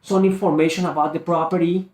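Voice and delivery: "property" left open like a question; questioning tonality. Shown as a demonstration. Sales coach reconfirming with a seller, questioning tonality. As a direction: put a question mark after "property". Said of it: "question mark".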